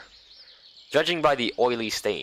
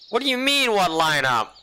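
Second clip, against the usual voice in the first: high, startled what lineup; surprised; 8 semitones higher, 3 dB louder than usual. Acted. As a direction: jump up in surprise.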